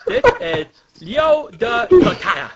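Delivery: loud hammed-up announcement; character shout. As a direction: shout it like a tiny hero. Voicing game character intro.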